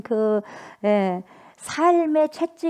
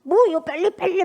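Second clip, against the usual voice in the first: much higher, urgent "빨리"; hurrying urge; 9 semitones higher, 4 dB louder than usual. Retold or imitated. Son hurrying his father to sign, high urgent push. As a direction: rush him, pitched up high. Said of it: "막 재촉하는 거야".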